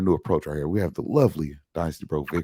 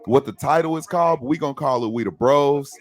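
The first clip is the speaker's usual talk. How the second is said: high, slow, grandly announcing; loud showman announcing the premiere; sophisticated voice; 7 semitones higher, 6 dB louder than usual. Shown as a demonstration. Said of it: "In my sophisticated voice".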